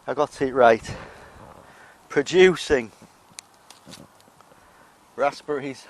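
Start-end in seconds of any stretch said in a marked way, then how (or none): 0.1-1.0 triumphant. Real, not acted. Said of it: "I haven't".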